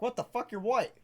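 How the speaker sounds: high-pitched retold disbelief; mock baffled outburst. Retelling reply to South African customer, mock baffled. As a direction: blurt it out high, comically confused.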